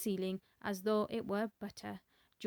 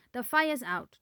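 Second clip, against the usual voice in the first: proud announcing; 3 semitones higher, 7 dB louder than usual. A narrator's reading. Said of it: "George announced proudly".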